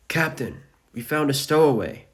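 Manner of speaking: high, loud crewmate reporting to the captain; calling out. A narrator's reading. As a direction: call out the alarming find. Crewmate calls out discovery to captain.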